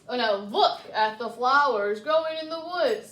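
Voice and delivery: sly, coaxing wolf; crafty wolf. Acted. Crafty wolf coaxes Red toward flowers, sly. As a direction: lure her off the path slyly. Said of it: "said the crafty wolf".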